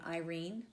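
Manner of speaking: i-RENE, stressed and rising on the second syllable; iambic stress. Shown as a demonstration. Teacher giving an iamb example, Irene stressed on "rene". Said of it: "that's an example of iamb".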